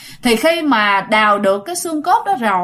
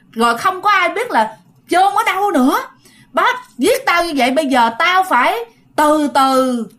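spirit's vengeful rage; 5 semitones higher than usual. Retold or imitated. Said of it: "bắt đầu căm hận lên".

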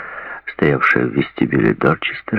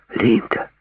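joyful exclamation; 7 semitones higher than usual. A narrator's reading. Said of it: "обрадованно воскликнул Джей".

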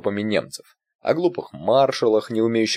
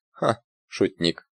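с улыбкой; much slower than usual. A narrator's reading. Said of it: "улыбнулся старик".

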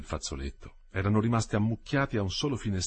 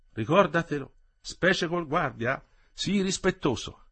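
tag; 9 semitones higher, 4 dB louder than usual. Acted. Woman admonishing, slow.

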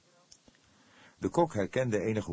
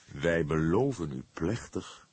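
solemn; slower than usual. A narrator's reading. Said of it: "sprak hij gedragen".

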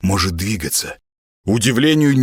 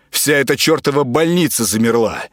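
ordinary delivery

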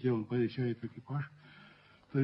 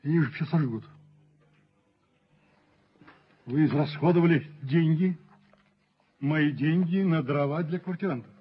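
a touch louder, sarcastic reproach; indignant scolding; 4 dB louder than usual. Acted. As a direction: tell him off for wasting money. Landlord scolds agent over spending.

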